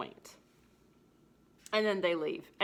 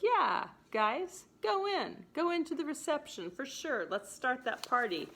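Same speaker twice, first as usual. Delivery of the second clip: lightly hammed-up groom leaving his own wedding; acting out Petruchio; 4 dB louder than usual. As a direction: cheerfully send the guests off, then announce the exit. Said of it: "And Petruchio is like".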